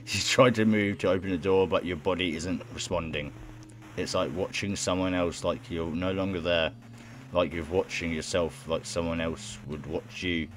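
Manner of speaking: low-key, even narration; narrating in a subdued reading voice; story narration. Acted. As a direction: read the tale out soberly. Reads game narration aloud.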